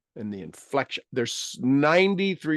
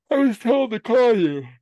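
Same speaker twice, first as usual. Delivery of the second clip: high, loud put-on voice; mock-wailing admission; imitated blurted confession; 11 semitones higher, 7 dB louder than usual. Voices Michelle's confession on phone.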